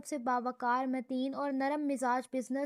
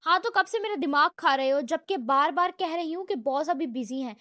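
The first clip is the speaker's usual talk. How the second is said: louder, fast irritated rant; scowling retort; 4 dB louder than usual. Acted. Secretary, fed up, rants back at the visitor loudly. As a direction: snap back, fed up with him. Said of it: "حیات نے تیورے چڑھا کر بولا".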